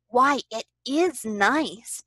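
slow, cheerful Piglet voice. A narrator's reading. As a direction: draw it out with cheerful appreciation. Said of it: "Piglet said cheerfully".

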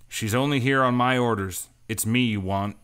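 firm and loud, standing his ground; confident. Acted. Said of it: "he said more confidently".

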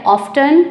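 often with a clear T, OFF-ten; American pronunciation. Shown as a demonstration. Teacher demonstrating the American often, t sounded. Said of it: "American में इसको कहा जाता है".

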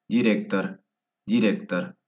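"director" ending in "tar"; "director" stressed on "rec", ending with A; O read as A. Shown as a demonstration. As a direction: say "director" the Russian way, last vowel A. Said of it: "se lee como A".

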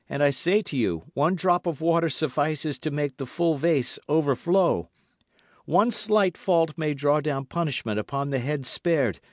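high, loud, solemn warning; pleading young officer. A narrator's reading. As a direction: plead earnestly, pressing each point on your lord.

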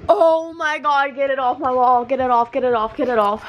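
urgent frightened begging; screaming at a spider. Real, not acted. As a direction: repeat it in a panic. Spider on the wall.

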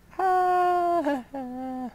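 high, gleeful laugh. Real, not acted. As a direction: laugh out in delight. Cheering over the working trick.

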